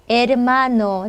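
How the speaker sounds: 에르마노 slowly, with a light, brief 르; touch the 르 in 에르마노 only slightly; weak r. Shown as a demonstration. Teacher modelling r before a consonant, 에르마노 with weak 르. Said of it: "약하게 르, 르 살짝".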